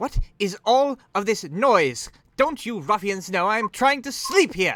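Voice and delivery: shrill, furious yell at full volume. Voicing a figure woken by noise in the stables: shouting angrily. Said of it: "shouting, like".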